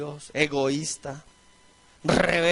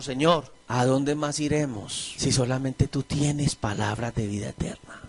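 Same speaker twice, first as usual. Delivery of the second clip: lower, slow and earnest; Peter's plea; 5 semitones lower than usual. Retold or imitated. Peter answering Jesus, lower and slow, a touch earnest. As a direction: speak as Peter pleading with his Lord. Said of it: "viene Pedro y le dice al Señor".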